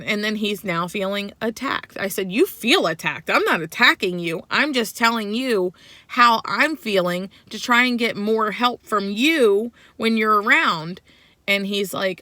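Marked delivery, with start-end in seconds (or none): 2.3-11.0 heated argument. Retold or imitated. Retold heated argument with husband.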